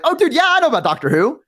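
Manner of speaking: high, overeager fake enthusiasm; nervous put-on excitement; panic lie. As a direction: bluff your way in fast. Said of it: "panic lied".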